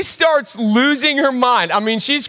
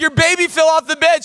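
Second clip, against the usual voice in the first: panicked shout; 6 semitones higher than usual. Retold or imitated. Dad telling his wife the baby fell, panicked high shout. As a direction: confess it in a rush of panic. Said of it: "I'm like".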